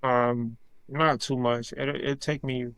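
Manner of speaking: ordinary talk, nothing marked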